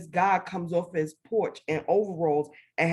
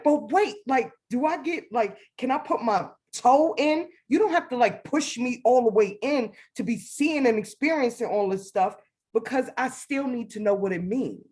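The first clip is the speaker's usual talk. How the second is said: anxious pleading; 5 semitones higher than usual. Retold or imitated. Bargaining with God, high voice.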